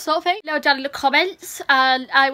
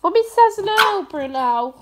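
mock stern; 5 semitones higher than usual. Real, not acted. Scolding the dog.

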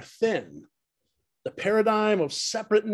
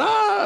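sudden high startled shriek over a bug; 4 dB louder than usual. Retold or imitated. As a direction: yelp in fright as if a dragonfly landed on you. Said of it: "And I went".

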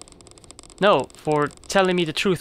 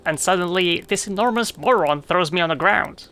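mildly voiced angry spider; cranky spider; 3 semitones higher than usual. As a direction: play the offended little spider. Spider character voice.

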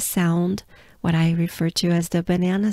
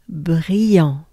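whispered brillant; 5 dB louder than usual. Shown as a demonstration. Teacher letting learners hear a whispered take. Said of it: "Take your time".

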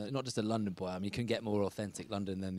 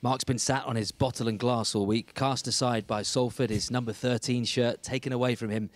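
punchy presenter read, louder than chat; scripted show intro; 4 dB louder than usual. Acted. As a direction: deliver a rhyming-slang intro like a show host. Host reads scripted show intro.

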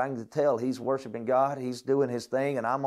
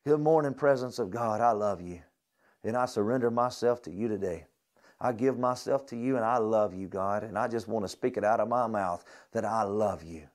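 morning prayer; 3 semitones lower than usual. Shown as a demonstration. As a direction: speak it gently as a daily devotion. Pastor voices his morning prayer.

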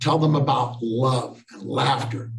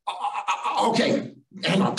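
higher, stammering okay; flustered; 7 semitones higher than usual. Retold or imitated. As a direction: stumble into a reply, pitched up. Flustered reply to embarrassed umpire.

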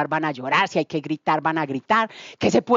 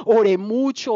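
laughing. Real, not acted. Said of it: "oré como una loca".

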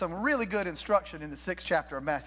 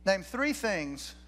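slow, stressed repeat; much slower than usual. Shown as a demonstration.

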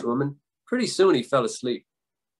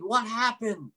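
high-pitched startled wail; rudely woken devil's high cry; mock screamed question; 7 semitones higher, 4 dB quieter, much slower than usual. A narrator's reading. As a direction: wail it high without real volume. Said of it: "he screamed".

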